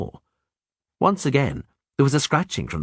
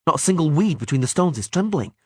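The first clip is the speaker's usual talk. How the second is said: tense archer voice; 8 semitones higher than usual. A narrator's reading. Milva voiced in audiobook.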